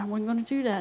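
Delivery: unvoiced quiet resolve; whispered to herself. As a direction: whisper it, turning the drink down. Quiet vow over a beer.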